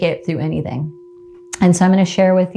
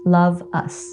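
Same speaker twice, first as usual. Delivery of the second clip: tender letter read aloud. Acted. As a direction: read it like a love letter to yourself, gently. Reads aloud her letter to herself.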